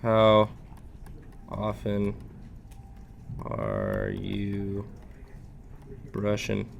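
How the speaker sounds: slow, soft gentle bear dentist. Acted. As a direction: ask it slowly like a gentle bear. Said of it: "That's the bear voice".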